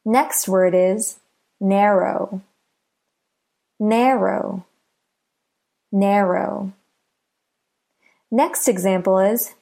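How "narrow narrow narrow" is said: "narrow" with NAR stressed; stress on first syllable. Shown as a demonstration. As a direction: say "narrow" with the beat on NAR, row lighter. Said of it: "Listen to the first syllable".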